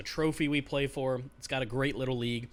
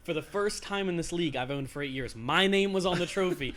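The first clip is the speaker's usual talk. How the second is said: laughing while telling; 5 dB louder than usual. Real, not acted. Gleeful story of winning trade.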